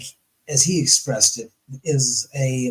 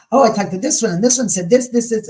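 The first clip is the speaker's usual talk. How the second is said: gossipy name-dropper; 6 semitones higher, 3 dB louder, faster than usual. Retold or imitated. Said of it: "like, say".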